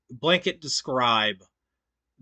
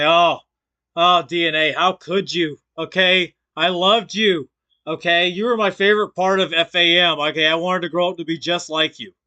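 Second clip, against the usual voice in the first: loud, higher whiny mock heartbreak; mock bitter fan; 4 semitones higher, 5 dB louder than usual. Streamer mocks a rival as a betrayed fan, loud and whiny. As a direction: ham up a betrayed fan's wail. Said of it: "It did sound like bitter resentment. Like".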